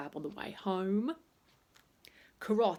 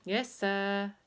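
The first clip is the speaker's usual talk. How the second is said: put-on chiming boys; 2 semitones higher, 4 dB louder than usual. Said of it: "chimed the boys".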